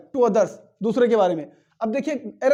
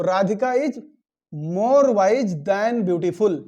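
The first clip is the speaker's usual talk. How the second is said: slow corrected sentence; 2 semitones lower, much slower than usual. Shown as a demonstration. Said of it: "ना कि वाइजर".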